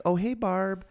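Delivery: high-pitched greeting to a mom; imitated phone caller. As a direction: play a caller mistaking the kid for mom. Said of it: "like the little kid voice".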